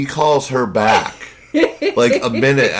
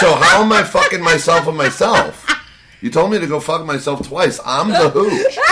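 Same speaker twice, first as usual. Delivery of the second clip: mock indignation; 4 semitones higher than usual. Laughing mock indignation at the curse.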